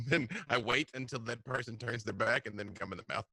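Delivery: audio cutting out; choppy, dropping connection; uneven volume. Real, not acted. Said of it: "your audio is cutting out just a little bit".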